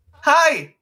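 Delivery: a high, loud, chirpy greeting; talking animal voice. Acted. Player voicing the talking dog, high eager hello. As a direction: pop up like an eager little critter. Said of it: "Can I give him a voice".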